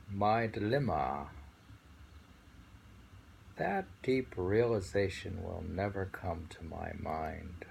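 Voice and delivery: poem reading. Acted. Reading a Zen poem aloud.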